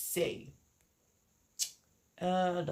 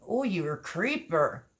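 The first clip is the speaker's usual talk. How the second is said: playful teasing; 4 dB louder than usual. Pretend. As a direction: tease a lurker with a jokey jab. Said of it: "No, I'm just kidding".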